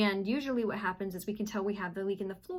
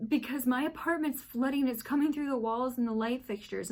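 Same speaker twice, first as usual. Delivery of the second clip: panicked neighbor; 4 semitones higher than usual. Retold or imitated. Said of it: "panic mode".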